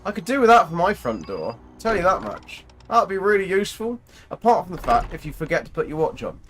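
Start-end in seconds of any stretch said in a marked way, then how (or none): 0.0-4.0 excited. Real, not acted. Impressed by watch door.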